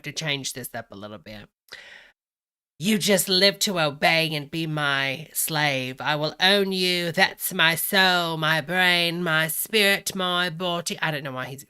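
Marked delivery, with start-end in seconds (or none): 2.8-7.1 hammed-up British Cockney master. Reading the leaked text to followers, in loud mock British Cockney. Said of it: "he's reading it British Cockney". 7.1-11.0 loud, measured mock-Cockney list; put-on British Cockney, each item set apart. Reading his text to followers, loud mock British Cockney. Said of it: "he's reading it British Cockney".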